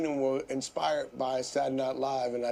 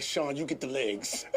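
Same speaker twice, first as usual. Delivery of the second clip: laughing; 3 semitones lower than usual. Retold or imitated. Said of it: "I was like".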